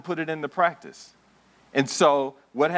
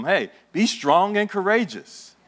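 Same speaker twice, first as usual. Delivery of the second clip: slow, higher exhortation; God's charge; 7 semitones higher than usual. Acted. God encouraging trembling Joshua, slow and lifted. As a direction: lift it like a divine command.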